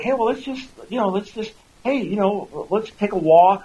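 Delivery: high-pitched, casually chirpy suggestion; breezily insensitive. Acted. Acts oblivious friend with sufferer.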